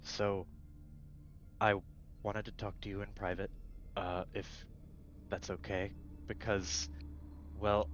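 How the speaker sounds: halting, softened awkward invitation; hesitant mock whisper. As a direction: ask shyly, with long nervous pauses. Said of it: "the crackly whisper of just".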